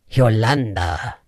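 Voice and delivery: Yolanda said slowly and low, syllable by syllable; careful model pronunciation. Shown as a demonstration. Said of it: "Now, repeat after me".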